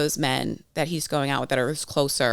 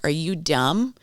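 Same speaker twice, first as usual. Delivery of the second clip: mild incredulous telling-off, rising at the end; mock-scold a friend like a mom; mom-style scolding; slower than usual. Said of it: "I am momming them".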